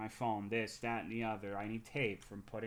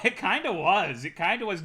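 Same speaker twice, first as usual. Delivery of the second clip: laughing; 8 semitones higher, 10 dB louder than usual. Real, not acted. Laughing while admitting.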